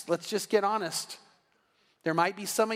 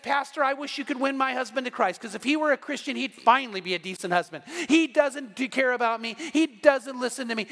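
imitated nagging wife, pitched up; complaining; 4 semitones higher than usual. Wife complaining to pastor about her husband, nagging. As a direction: gripe on and on, punching each grievance. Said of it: "she starts complaining about her husband".

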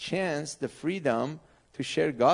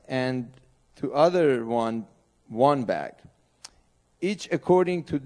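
scripture reading. Acted. Pastor reading the parable of the talents to the congregation, slow and emphatic. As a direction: read each verse out to the church with weight.

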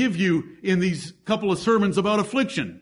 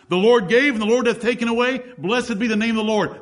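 scripture recited; 4 semitones higher than usual. Shown as a demonstration. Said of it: "You should say it to yourself".

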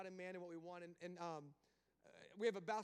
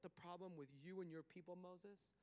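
soft God; 3 semitones lower, 6 dB quieter than usual. Acted. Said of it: "And you know what God says".

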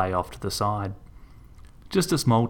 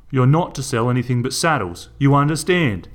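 rising to a louder demand; angry; 4 semitones higher, 4 dB louder than usual. Acted. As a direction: push him to a near shout. Garth bullies Melinda.

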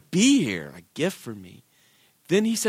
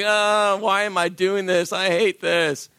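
inner grumbling; slower than usual. Retold or imitated. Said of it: "inside I'm like".

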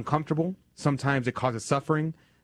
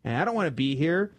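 lightly voiced, higher child complaint; whiny child; 5 semitones higher than usual. Poem's child voiced by priest, a hint of whining. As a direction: complain like a fidgety kid. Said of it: "the child is like".

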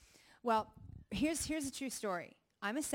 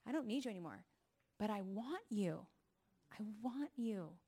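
tender declaration; 4 dB quieter than usual. Retold or imitated. Retold tender declaration to husband.

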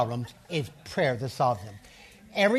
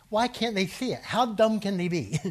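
mock exasperation; 5 semitones higher than usual. Voicing exasperated believer, laughing.

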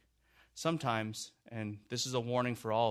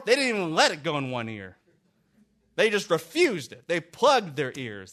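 louder and higher, driving the point home; full-force preaching; 5 semitones higher, 7 dB louder than usual. Acted. Preacher urging his congregation to repent, full-force preaching. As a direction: preach it hard, stacking the lines.

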